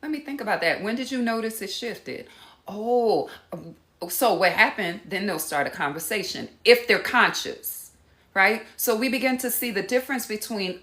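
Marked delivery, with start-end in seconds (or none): 0.0-5.0 genuinely want to know; light open curious tone; open curiosity. Retold or imitated. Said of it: "they will say".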